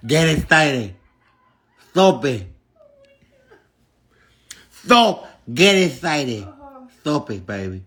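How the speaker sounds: put-on Hispanic accent with lisped s sounds; lisping mock accent. Demanding a commenter's source, in a lisping Hispanic accent. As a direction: lisp it in a fake Spanish-tinged accent.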